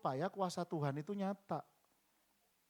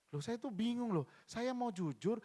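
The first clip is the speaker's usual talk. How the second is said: higher-pitched retold bewilderment; frustrated woman; 7 semitones higher than usual. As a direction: lightly voice a confused, frustrated congregant. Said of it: "frustasi akhirnya".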